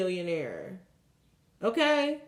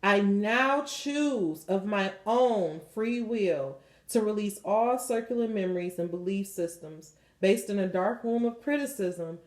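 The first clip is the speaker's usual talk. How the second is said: guided prayer; 3 semitones lower than usual. Acted. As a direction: lead them gently through the release prayer. Leads a release prayer.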